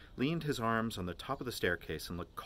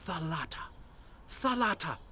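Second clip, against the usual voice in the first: exultant cry; 9 semitones higher than usual. A narrator's reading. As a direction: hail the sea in rising rapture.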